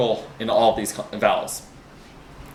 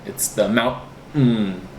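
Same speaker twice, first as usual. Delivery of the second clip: mountain stressed, drawn out slowly; emphasis on mountain; slower than usual. Shown as a demonstration. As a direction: lean hard on mountain, slow. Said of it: "that emphasis".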